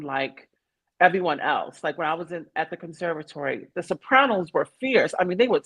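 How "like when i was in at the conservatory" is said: ordinary talk, nothing marked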